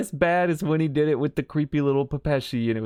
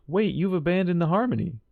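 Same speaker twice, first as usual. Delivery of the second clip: raised-pitch alarmed realisation; surprised; 7 semitones higher than usual. Retold or imitated. Robin catches him abandoning the harmony, alarmed. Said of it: "Robin's like".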